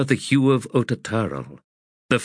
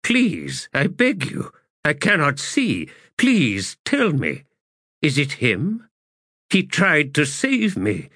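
high, desperate pleading voice; pleading blind old man; 6 semitones higher than usual. Acted. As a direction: beg as a frightened blind man. Heboric pleading.

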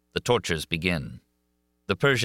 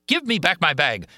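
high, loud bellow; monster's repeated demand, yelled; shouted demand; 11 semitones higher, 5 dB louder than usual. A narrator's reading. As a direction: roar it the second time.

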